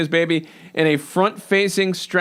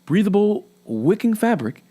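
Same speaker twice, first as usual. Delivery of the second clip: cheesy announcer voice. Pretend. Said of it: "like your cheesy announcer voice".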